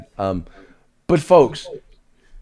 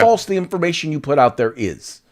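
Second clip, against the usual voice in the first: retold retort to friends; 8 semitones higher than usual. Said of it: "And I said".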